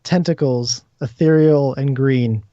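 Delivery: measured, phrase-by-phrase narration; game master's scene setting. Acted. Game master describes ghostly tentacles calming a player, measured narration. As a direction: describe the vision steadily, pausing between images.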